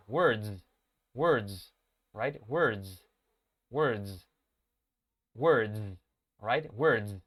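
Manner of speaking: "words" with a long exaggerated buzzing z; exaggerated final z. Shown as a demonstration. Teacher exaggerating the z so students hear it. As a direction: overdo the z at the end of "words". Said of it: "Yo lo estoy exagerando para que lo oigan bien".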